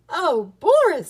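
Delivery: high, loud storybook teacher delight; delighted praise. A narrator's reading. Miss Cluck hearing how Boris saved them, delighted praise. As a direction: exclaim it with proud delight.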